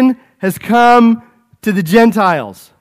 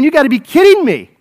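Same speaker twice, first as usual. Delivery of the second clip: imitating the Jews; 4 semitones higher, faster than usual. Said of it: "The Jews are looking at that and saying".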